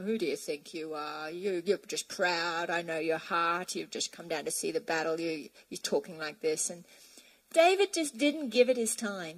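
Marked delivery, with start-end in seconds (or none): 0.0-6.7 put-on accusing older brother. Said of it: "his brother started accusing him, going".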